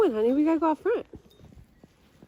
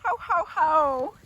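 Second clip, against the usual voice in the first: Santa laugh; slower than usual. Pretend. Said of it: "I think Chancey's Santa Claus".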